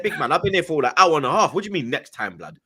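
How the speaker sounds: retold impatient protest, a touch of anger; pissed off. Telling Robbie he waited an hour and a half, pissed off. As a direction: argue your case to the man keeping you waiting. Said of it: "That's how I was talking".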